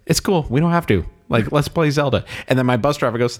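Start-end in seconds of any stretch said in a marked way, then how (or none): 0.0-2.2 goofy easygoing guy. Retold or imitated. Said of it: "My nice, fat, goofy person says".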